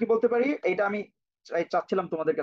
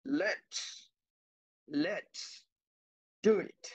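softened let's; 3 semitones lower, 7 dB quieter, much slower than usual. Shown as a demonstration. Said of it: "এবার বললাম".

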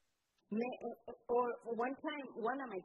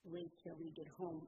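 retold whisper; 6 semitones lower, 9 dB quieter than usual. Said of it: "she whispered in my ear".

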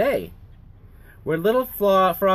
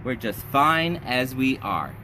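contented reassurance; 3 semitones lower than usual. Acted. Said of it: "said Little Frog".

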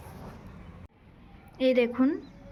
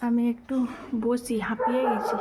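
out of breath. Real, not acted. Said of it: "আমার কথা শুনেই হয়তো বুঝতে পারছেন".

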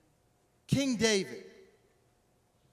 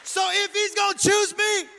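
loud, exultant retort, climbing higher; defiant David; 10 semitones higher, 9 dB louder than usual. Acted. David telling his wife God chose him, loudly defiant. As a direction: fire it back with unapologetic pride. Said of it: "And David's like".

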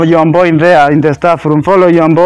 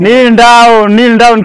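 sharp command; 3 semitones higher, 3 dB louder, much slower than usual. Acted. Teacher orders pupil to kneel.

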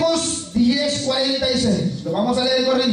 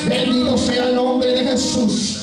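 fervent preaching; 2 semitones higher than usual. Real, not acted. Preacher exalting Jesus before the congregation, fervent preaching. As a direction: preach it out in repeated bursts of praise.

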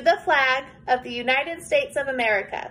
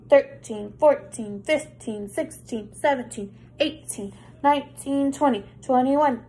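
lightly voiced deep dog, counting; deep doggy voice. Shown as a demonstration. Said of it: "Can you make a deep doggy voice?".

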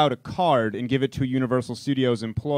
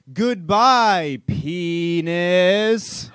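high, loud alien ride voice; 5 semitones higher, 7 dB louder, much slower than usual. Retold or imitated. Ride's E.T. saying goodbye to dad, high alien voice. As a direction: squeal it like a cheesy alien robot. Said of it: "and then E T goes".

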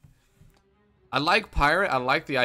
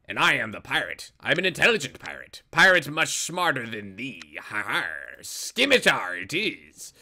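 pirate voice. Pretend. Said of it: "I'm not gonna talk that way the whole time".

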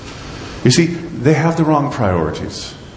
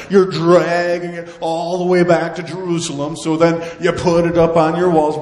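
higher, exasperated sarcastic scolding; sarcastic God; 6 semitones higher than usual. Acted. God scolds the people neglecting his temple, sarcastic. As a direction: list their excuses with mounting exasperation. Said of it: "This is why he uses sarcasm here".

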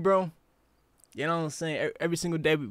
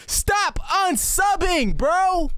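slow, drawn-out whining plea; whiny plea; 4 semitones higher, much slower than usual. Real, not acted. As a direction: stretch it out, begging chat. Pleading with chat again.

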